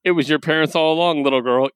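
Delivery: hint of a gloating Saturday morning villain; mild hammed-up evil gloat; cartoon villain voice. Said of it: "read Skeletor or Rapscullion's entire speech".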